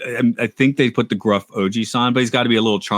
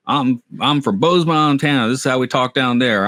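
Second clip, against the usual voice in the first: higher-pitched mock redneck accent; David Cross redneck routine; 5 semitones higher than usual. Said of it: "there's the David Cross routine about".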